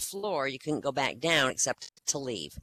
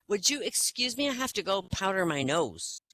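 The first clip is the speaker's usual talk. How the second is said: put-on polite little boy; 4 semitones higher than usual. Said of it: "he goes".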